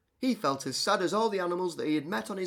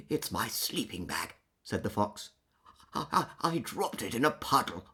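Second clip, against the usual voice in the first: mild sad fox; 4 semitones lower than usual. Acted. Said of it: "a fox who was crying".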